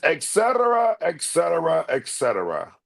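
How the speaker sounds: royal brush-off, stepping down; King of Siam impression. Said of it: "he says".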